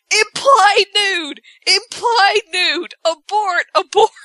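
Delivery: high, drawn-out alarm cries; mock panic. Wife warning her naked husband, mock panic. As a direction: sound a hammed-up emergency warning.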